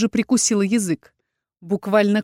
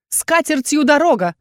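higher, louder parting jab; thrown after him; 7 semitones higher, 5 dB louder than usual. A narrator's reading. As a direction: fling it at his back. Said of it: "бросила я ему вслед".

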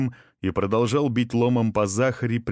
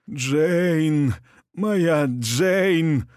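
dying rasp; 7 semitones higher, much slower than usual. A narrator's reading. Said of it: "прохрипел он".

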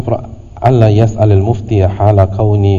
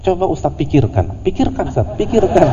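rising higher and higher, nagging; pushy asker; 8 semitones higher than usual. Retold or imitated. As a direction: push the ustadz harder each time. (penanya yang mendesak dengan suara makin tinggi)

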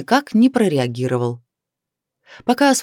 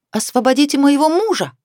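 a higher, insistent woman's demand; 10 semitones higher than usual. A narrator's reading. Wife blocking patrol car, demanding her husband's release, higher. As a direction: insist he be freed at once. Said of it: "потребовала она".

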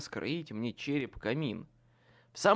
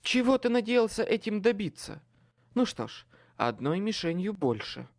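sinister taunting; 6 semitones higher, 4 dB louder than usual. A narrator's reading. Possessed girl taunts.

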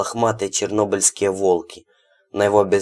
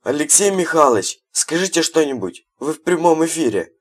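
mock TV reporter; 8 semitones higher, 3 dB louder than usual. A narrator's reading.

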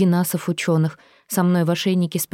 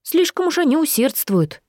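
smirking remark; 9 semitones higher than usual. A narrator's reading. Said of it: "хмыкнул Фероген".

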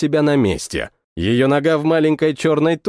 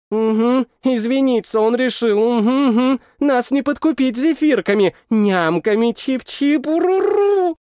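lightly raised grumbling babble; grumbly creature voice; 8 semitones higher than usual. Acted. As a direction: mumble sulkily between bites. Creature grumbling while munching.

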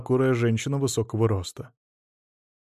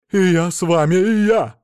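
higher and louder eager cry; excited shout, much higher and louder; 6 semitones higher, 8 dB louder than usual. A narrator's reading. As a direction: shout it like you won't be left behind. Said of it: "закричала Анна".

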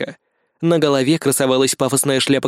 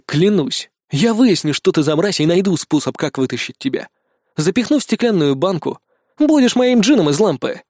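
ordinary delivery, nothing marked

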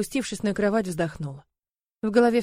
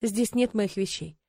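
detached; slower than usual. Acted. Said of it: "Отрешённо покачав головой, промолвила".

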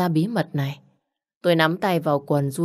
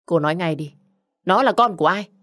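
louder, pitched-up demand for an answer; demanding shout; 3 dB louder than usual. Acted. Husband demands to know whose child it is, shouting. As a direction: demand the truth from her, hard.

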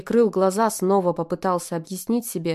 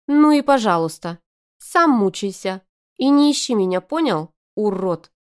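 blurting; 3 semitones higher, 6 dB louder than usual. A narrator's reading. Arina blurting insults before leaving. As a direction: fire it off and storm out. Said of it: "выпаливает".

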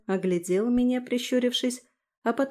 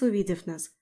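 ordinary delivery

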